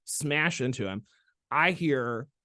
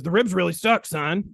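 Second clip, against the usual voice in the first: put-on South Carolina accent; 7 semitones higher, 6 dB louder than usual. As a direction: play an older South Carolina mentor addressing his student. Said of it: "He was from South Carolina".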